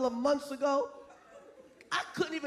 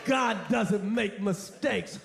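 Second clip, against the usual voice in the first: mock preacher; 5 semitones lower, slower than usual. Mock pious voice.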